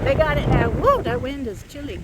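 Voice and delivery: loud outdoors. Real, not acted. Outdoors with cows, wind.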